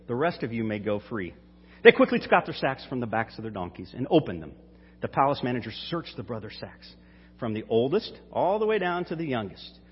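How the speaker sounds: measured Bible reading voice; scripture reading. Acted. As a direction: read the passage to the congregation. Reads scripture passage aloud.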